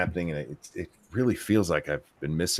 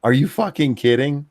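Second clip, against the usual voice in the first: imitated collective disbelief; 7 semitones higher, 5 dB louder than usual. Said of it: "everybody came together and went".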